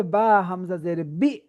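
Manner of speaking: "বা হামজা জের বি" slow, sound caught in the throat before "বি"; "বি" with a glottal catch, syllable by syllable; voice stopped at hamza. Shown as a demonstration. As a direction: stop the voice sharply in the throat on "বি", slowly. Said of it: "আওয়াজ আটকে দিতে হবে".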